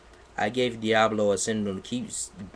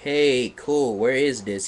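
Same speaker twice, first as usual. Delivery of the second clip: emo voice; 2 semitones higher, 3 dB louder than usual. Acted. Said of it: "he said in an emo voice".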